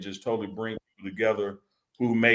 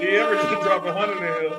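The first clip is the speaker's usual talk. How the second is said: hype shout-out; 7 semitones higher, faster than usual. Acted. Repeating donation shout-out.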